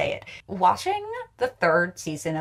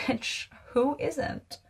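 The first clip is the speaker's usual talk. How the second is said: slow, softer words through a laugh; laughing aside; 7 semitones higher, 4 dB quieter, much slower than usual. Real, not acted. Viewer joking that everyone is unstable, laughing softly. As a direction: toss it off while laughing.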